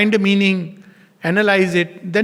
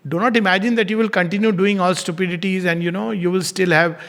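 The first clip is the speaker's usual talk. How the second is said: gentle grace. Pretend. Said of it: "It's a language of grace".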